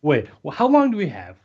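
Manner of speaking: mock confusion, questions tumbling out; confused worker. Co-host mimics movie workers confused why they are here, mock bafflement. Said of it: "It's like, they're".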